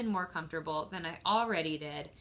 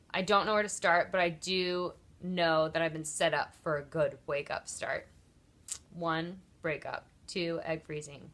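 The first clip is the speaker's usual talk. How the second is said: reads her journal entry aloud in a measured, listing cadence; reading her own writing; 2 semitones lower than usual. Real, not acted. To viewers, sharing her journal about waking up, read aloud. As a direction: read your own words out as a short personal essay. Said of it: "wanted to read you a little bit of what I wrote".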